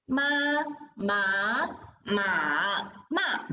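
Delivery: ma, ma, ma, ma each in its own tone: level, rising, dipping, falling; teacher demonstrates the four tones. Shown as a demonstration. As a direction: run through all four tones of ma in order. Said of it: "listen to me first".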